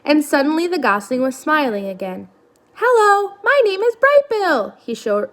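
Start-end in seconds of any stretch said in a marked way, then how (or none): 2.7-4.7 high, loud call over the waves; shouting. Acted. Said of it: "shouted over the waves".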